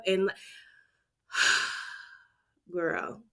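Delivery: ordinary talk, nothing marked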